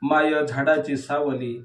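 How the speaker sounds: even, measured verse reading; declaimed poetry with small pauses between half-lines; poem recitation. Acted. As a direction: recite each image as its own phrase. Recites third poem aloud.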